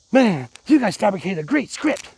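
mock commenter. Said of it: "swimming in all them comments".

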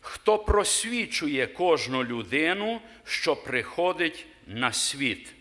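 slow, measured reading of holy text; scripture reading. Acted. Preacher reading the Gospel to the congregation, slow and solemn. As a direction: read it out solemnly, word by word. Reads Gospel of John aloud.

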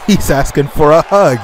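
chuckling through the words; laughing. Real, not acted. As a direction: laugh as you describe it. Laughs at the hug request.

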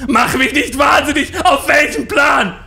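high, loud furious shout; scream, driven mad; wütend schreiend. Retold or imitated. (laut wütend brüllend)

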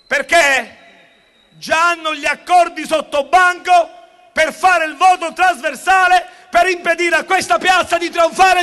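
rally speech at full force; booming balcony speech. Real, not acted. Rally speech peak, crowd addressed.

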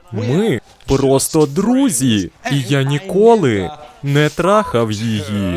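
"друзі" and "ніколи" leaned on, slow; slow emphatic denial. Acted. Husband repeats to wife they're just friends. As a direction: hammer each key word. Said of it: "лапки — це саркастична іронія".

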